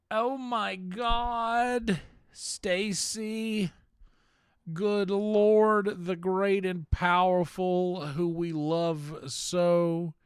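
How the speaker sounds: high, loud gushing welcome; high-pitched thrilled welcome, dragged out; excited greeting. Real, not acted. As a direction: shriek with delight at a friend arriving.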